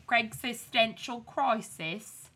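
poor attempt at a British accent; mock British pronunciation; bad British accent. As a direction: put on a shaky-quality fake British accent. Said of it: "that was a bad accent".

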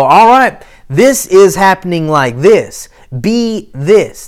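loud, decisive order; commanding declaration. Retold or imitated. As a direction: declare it with authority. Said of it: "go forward and go".

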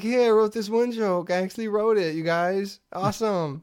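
lightly mocked self-satisfied comic; Doug Benson. Comedian showing off his one joke, mock-proud impression. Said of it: "He's just so proud of every joke".

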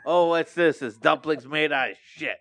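excited game show host voice; host a gross-out challenge, revved up. Acted. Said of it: "Is this Fear Factor?".

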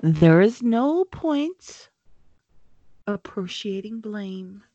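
slow, smooth calm. Acted. Snape calming the sisters, slow and smooth. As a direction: glide over the words, unbothered. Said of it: "said Snape smoothly".

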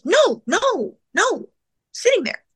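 high-pitched, repeated insistence; high, emphatic mimicry; insistent retold protest. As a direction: imitate someone urgently insisting. Retold insistence of confused father.

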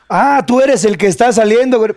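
imitación leve de un tío borracho, lenta. Retold or imitated. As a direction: arrastra el paso como tío borracho pesado. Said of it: "comentarios de tío borracho". (tío borracho, apenas actuado)

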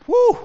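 a high, loud mock whoop; excited whoop. Preacher mimics a single spotting a candidate, a high loud whoop. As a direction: whoop at the new catch.

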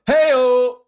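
high loud party whoop; mock cheer. Podcaster imagining his own jump through flames, high whoop. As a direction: cheer like leaping through fire. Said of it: "I'd be like".

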